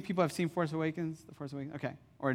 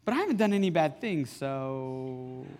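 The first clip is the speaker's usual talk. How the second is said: daughter's innocent protest; 4 dB louder than usual. Retold or imitated. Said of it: "and then she goes".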